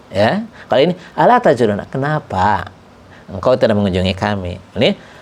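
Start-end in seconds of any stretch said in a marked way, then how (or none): 1.1-4.6 gentle request. Shown as a demonstration. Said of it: "ta'rid menuntut dengan lembut".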